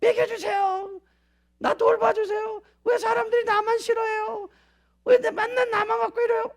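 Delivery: whining crybaby voice. Pretend. Believer whining to the Lord like a helpless baby, soft and high. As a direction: whine like a spoiled child begging for care. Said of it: "구사하는 언어 그거 하나요?".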